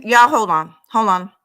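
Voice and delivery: talking with a retainer in; words round a mouth retainer; wearing a retainer. Real, not acted. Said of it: "I got my retainer in my mouth".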